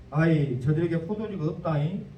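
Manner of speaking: a touch of a Jeolla mother's plea; Mary nudging her son in light Jeolla speech; Jeolla-dialect mother. Retold or imitated. Mary telling Jesus the wine ran out, in light Jeolla dialect. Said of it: "우리 전라도 말로 하면 엄마가 그랬다".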